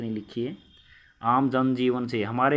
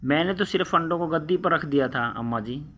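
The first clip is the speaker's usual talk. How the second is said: whimpering; 3 semitones higher than usual. Acted. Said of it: "रोतनी सूरत बनाकर बोला".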